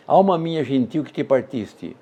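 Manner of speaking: even, deliberate reading stressing the sixth and tenth syllables; scanning the meter. Shown as a demonstration. Teacher dividing the verse for students, beat by beat. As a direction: mark the beats of "gentil" and "partiste". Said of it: "Vamos à divisão".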